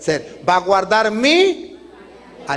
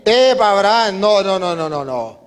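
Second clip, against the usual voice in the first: urgent interruption; 4 dB louder than usual. Acted. God stops Abraham mid-strike.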